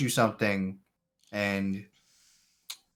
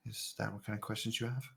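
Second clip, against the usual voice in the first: quiet stranger voice. Acted. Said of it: "you'd say".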